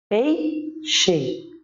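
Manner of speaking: "Peixe" split PEI... XE, falling on the weak E; slow two-beat "Peixe" with clear final E; stressed first syllable. Shown as a demonstration. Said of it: "essa é a sílaba tônica".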